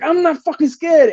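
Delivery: high, slowed-down insistence; retold defiant bravado. Retold defiance before the tiger.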